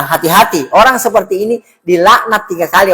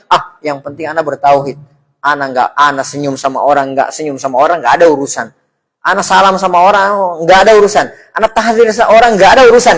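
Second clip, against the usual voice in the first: dismissive; 6 semitones lower than usual. Retold or imitated. Mocking a careless believer.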